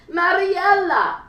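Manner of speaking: high, loud, long desperate call of a name; frantic cry. Acted. Older woman calling her lost daughter: frantic loud cry. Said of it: "A frantic voice cried out".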